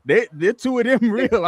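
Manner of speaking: a hint of a boss in disbelief; the boss, amazed. Boss watching the standoff, a touch of awe. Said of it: "my boss looked at me and Joy and go".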